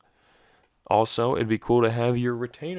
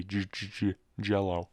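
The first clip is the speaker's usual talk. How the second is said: wearing a retainer. Real, not acted. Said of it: "it sounds like you have a lisp".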